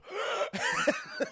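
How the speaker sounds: high wheezing cackle; villain's signature ending. Retold or imitated. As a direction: cap it with a high, overdone wheeze. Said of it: "he always ends with".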